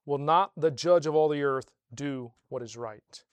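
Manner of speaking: ordinary delivery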